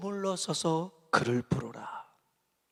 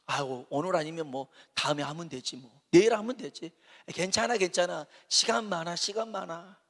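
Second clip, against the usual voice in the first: lazy mock complacency. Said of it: "누가 시간 많대요?".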